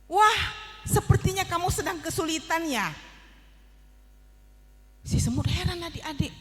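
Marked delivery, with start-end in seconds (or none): 0.0-2.9 kind butterfly. Acted. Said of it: "suara yang berkata demikian".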